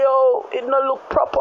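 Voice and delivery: light Jamaican patois quote; hint of a Jamaican accent. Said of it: "we are trying to say".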